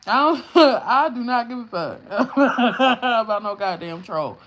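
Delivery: laughing through a slow, loud brush-off; loud laughing scoff; laughing dismissal. Real, not acted.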